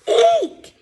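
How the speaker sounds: very high squeal; Hubby frightened, very high squeal; alarmed eek. Acted. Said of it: "bleeped Hubby in alarm".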